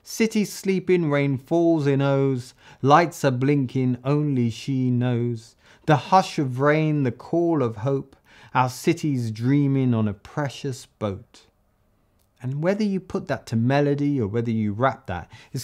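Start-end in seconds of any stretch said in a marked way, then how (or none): 0.0-11.4 slow, rhythmic full verse; reciting the verse. Shown as a demonstration. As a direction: perform the finished verse beat by beat. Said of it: "So here we have it".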